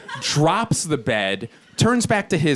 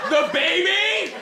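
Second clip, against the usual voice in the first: hysterical disbelief. Retold or imitated. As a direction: draw it out high, climbing in disbelief. Acts out hysterical incredulous answer.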